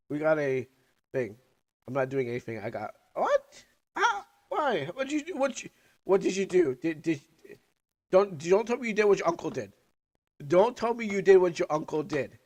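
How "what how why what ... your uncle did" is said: loud, high exasperated scolding; loud mock telling-off. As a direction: scold the viewer in a hammed-up way.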